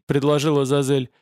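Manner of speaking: plain reading voice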